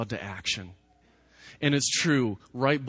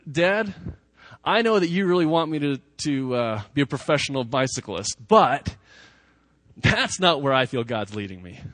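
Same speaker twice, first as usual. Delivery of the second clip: put-on earnest child to father; 4 semitones higher, 7 dB louder than usual.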